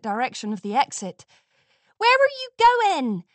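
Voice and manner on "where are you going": high, loud call after her. A narrator's reading. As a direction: call across the stands. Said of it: "Apple Bloom called".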